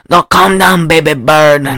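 lightly imitated Paraguayan accent; a badly faked Paraguayan accent. Snake hunter calming Denise, in a mock Paraguayan accent. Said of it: "doing a bad Paraguayan accent".

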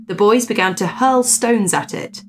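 lifted, measured storyteller's voice; story narration. Acted. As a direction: read the old ghost tale aloud with emphasis. Reads a ghost story aloud.

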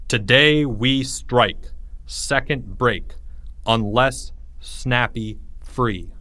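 slow, spaced-out threat; ominous sign reading. A narrator's reading. Fresh sign at the door next morning, ominous. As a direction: read it haltingly, word by word.

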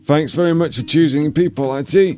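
scripted support rep. Acted. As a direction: sound like a helpdesk recording.

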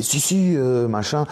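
mock the boss pushing them on; quick eager imitation of the boss; boss insisting.

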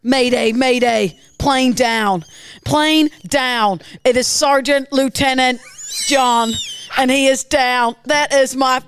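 distressed fighter pilot. Acted. A pilot radios as his wingman goes down, mock despair. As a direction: pilot grieving his downed wingman, voice breaking at the end. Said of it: "ace fighter pilot that's just watched".

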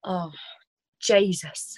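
one-word go at an Irish accent; attempted Irish accent. Shown as a demonstration. Asked by her friend for Irish, tentative Irish accent. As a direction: try it lightly in Irish. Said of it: "try do an Irish one".

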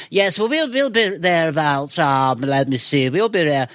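slow mock posh accent on the phone; posh woman. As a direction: imitate a posh mother announcing her plans. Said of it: "the posh woman was talking".

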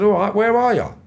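high, loud demand; retold fired-up call to a rival; aggressive challenge. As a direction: call him out, ready to fight. Ready for confrontation on phone.

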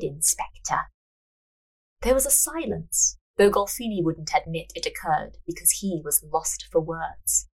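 measured storyteller's reading; story narration. A narrator's reading. Narrator reading a fortune-teller scene, measured narration. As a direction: read the tale aloud, unhurried.

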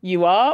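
"You are" rising on "are"; Canadian-style query. Shown as a demonstration. Poet repeating the Canadian reply, "You are" rising on "are". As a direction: lift the end of "You are". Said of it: "in Canada they would go".

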